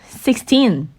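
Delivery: put-on "sixteen" with the weight on the end, six-TEEN, said slowly; stress on TEEN. Shown as a demonstration. Teacher modelling sixteen against sixty, end syllable stressed. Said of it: "육십과 십육도 마찬가지예요".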